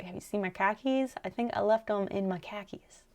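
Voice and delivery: an unvoiced stage whisper; whispered joke. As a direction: breathe the punchline as a whisper. Joking Boston line, whispered.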